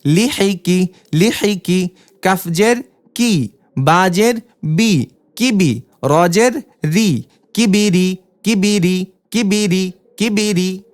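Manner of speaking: teacher's spelling drill cadence; syllable drill reading. Shown as a demonstration. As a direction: clear letter-by-letter spelling chant. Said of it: "এভাবে দ্রুত পড়তে হবে".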